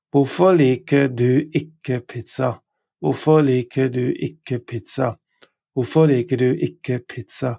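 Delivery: "Hvorfor liker du ikke pizza" stressed on "Hvorfor"; Norwegian question. Shown as a demonstration. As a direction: model the question clearly. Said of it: "Why don't you like pizza?".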